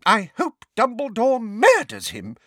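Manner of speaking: high, loud, angry wish; furious. A narrator's reading. Neighbour cursing the vanished Mundungus, furious. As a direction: spit it out furiously. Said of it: "said Missus Figg furiously".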